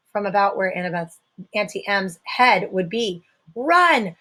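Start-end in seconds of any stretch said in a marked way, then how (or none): 3.5-4.2 high, loud bleat. A narrator's reading. Grover panics and tells them to flee, a high bleat. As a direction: yelp it out in panic. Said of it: "Grover bleated".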